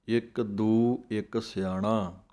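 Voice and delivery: slow, measured chant of scripture, each word drawn out; slow Gurbani recitation. Shown as a demonstration. Teacher recites the verse for students, slow chant.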